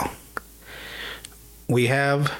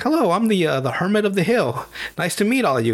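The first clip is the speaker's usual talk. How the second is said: a lightly voiced friendly old hermit, higher at first; jovial hermit; 5 semitones higher than usual. Hermit welcomes the gang in a jovial, higher voice. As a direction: greet them like a cheery hobo. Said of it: "He's really happy and jovial".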